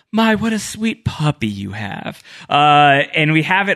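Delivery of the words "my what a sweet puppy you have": deeply threatening, sing-song tone. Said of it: "deeply menacing Benjamin Linus tones".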